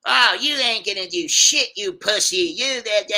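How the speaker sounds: a retold drunk woman mouthing off; mock drunken insult. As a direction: throw the insult at him, half laughing.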